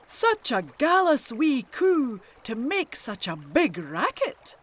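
a kelpie calling up from under the bridge, mock-booming. A narrator's reading. Kelpie scolds the wee coo for her racket, mock-booming. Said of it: "a booming voice from beneath the bridge".

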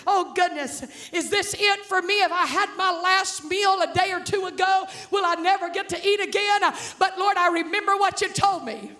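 preacher voicing the widow's plea; impassioned preaching. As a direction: preach her prayer with rising fervor. Preaches as the anxious, trusting widow.

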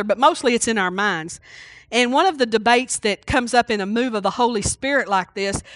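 ordinary talk, nothing marked

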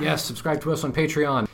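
loud urgent whisper; whisper yelling. Real, not acted. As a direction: whisper it but push it out loud. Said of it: "Why are we whispering?".

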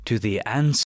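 hushed, breathless whisper. Acted. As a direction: breathe the line like a secret. Reciting book's ominous opening lines.

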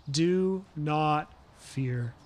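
gentle reassurance. Acted. Preacher voicing Jesus' comfort, slow and tender. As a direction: lay each word down gently. Jesus' first words quoted.

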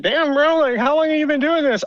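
high, excited disbelief; amazed. Retold or imitated. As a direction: squeak it out in amazement. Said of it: "I'm like".

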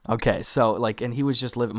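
popping usb mic; mic cutting in and out; crackly usb mic. Real, not acted. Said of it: "my mic keeps popping in and out sensitivity-wise".

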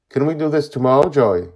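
high, loud, hurried plea; pleading child. A narrator's reading. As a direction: voice an anxious boy begging for a delay. Child nervously pleads to postpone.

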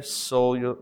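"Cellular" said as soul-ular, SOUL at the start; pun cellular. Shown as a demonstration. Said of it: "You see what I did there?".

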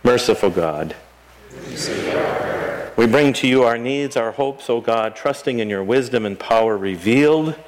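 prayer. Acted. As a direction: pray it reverently, unhurried. Leads prayers of the people.

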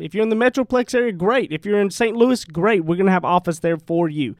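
loud, punchy radio ad voice; ad read. Acted. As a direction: sell it like a radio spot. Reads a sponsor ad.

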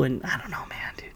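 unvoiced whispered trail-off. Real, not acted. Trailing off in his rant, whispered. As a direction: let the words fall to a whisper.

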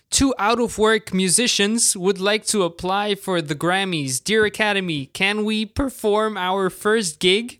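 hammed-up polite plea; mock humble application. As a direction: read it like a humble cover letter to the Academy. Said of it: "Twitter geschrieben hat, so".

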